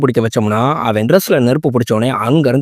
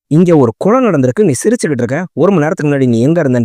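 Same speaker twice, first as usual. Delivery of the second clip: a touch of retold irritation, pitched up a little; tense questioning; 3 semitones higher than usual. Samath, tense, questions Rocky for laughing at a murder, mildly irritated. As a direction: mildly snap at him as a tense cop would. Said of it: "நம்ம சமத்து tension ஆயிட்டு".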